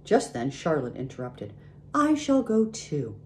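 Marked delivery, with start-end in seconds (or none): 1.9-3.2 high, slow, gentle announcement; softly and unhurriedly declare it. A narrator's reading. Charlotte interrupts to say she will go, softly. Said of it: "she said softly".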